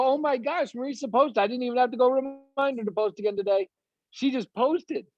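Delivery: high-pitched, thrilled surprise; delighted amazement. Acted. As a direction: marvel in a high voice at the good news. Acting out a delighted team leader.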